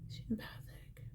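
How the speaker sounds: breathy secret whisper. Real, not acted. Reader whispering the mother's message to a viewer. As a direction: hush it like sharing a secret.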